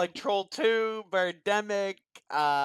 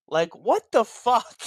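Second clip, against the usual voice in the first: louder, higher, slowed, laughing through it; laughing disbelief; 6 semitones higher, 7 dB louder, slower than usual. Real, not acted. Cohost laughing in disbelief at the movie, loud and slow. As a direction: laugh out the last word in disbelief.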